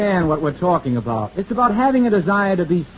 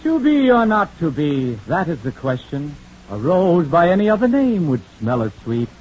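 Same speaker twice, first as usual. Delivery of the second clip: hammy Shakespearean actor. Pretend. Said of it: "I'm taking dramatic lessons".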